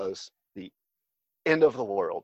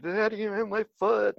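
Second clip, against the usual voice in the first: put-on high, crying little boy voice; imitating a tearful four-year-old; son crying to dad; 12 semitones higher than usual. Son crying to his dad at the door, high little-boy voice. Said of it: "He's like".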